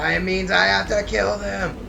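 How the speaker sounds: high, loud, slow threatening shout; mock furious yell. Big Mom yelling after the fleeing Straw Hats, in a high, loud, slow furious shout. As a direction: bellow the threat like a raging giant. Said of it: "she yells out".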